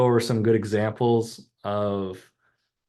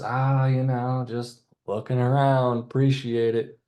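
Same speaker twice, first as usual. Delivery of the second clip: brushing off; 3 semitones higher than usual. Retold or imitated. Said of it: "then the customer goes".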